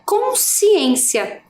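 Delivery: "Consciência" stretched very slowly with a falling end; drawn-out syllables. Shown as a demonstration. Teacher modelling the word for pupils, slow. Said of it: "Quando eu faço a pronúncia dessa palavra no todo".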